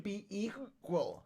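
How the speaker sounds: hiccuping mid-word; words broken by a hiccup. Real, not acted. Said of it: "These hiccups are killing me".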